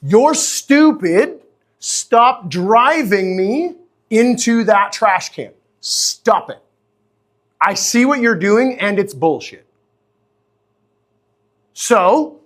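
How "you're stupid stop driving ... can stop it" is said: slow, fed-up dog complaining to its owner; annoyed dog voice. Retold or imitated. Dog scolding the owner, slow and fed up. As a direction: drag it out like a sulky dog. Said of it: "Your dog is gonna go".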